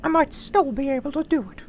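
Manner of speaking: very high loud cartoon mouse voice; trying out the Mickey voice. Shown as a demonstration. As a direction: chirp it out as Mickey. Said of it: "the Mickey".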